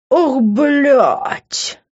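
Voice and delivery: high, startled curse; drawn-out cry of dismay; shocked exclamation. Acted. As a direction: blurt it out in alarm. Narrator exclaims at sudden attack.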